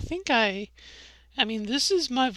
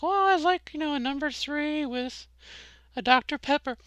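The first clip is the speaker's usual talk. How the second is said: higher, slightly strained drive-thru voice; pitched-up ordering voice; 5 semitones higher than usual. Retold or imitated. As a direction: let the voice creep up while ordering. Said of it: "my voice goes up in pitch".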